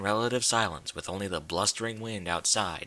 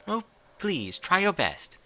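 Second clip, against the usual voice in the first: soothing; 8 semitones higher than usual. A narrator's reading. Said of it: "Rarity said in a soothing tone".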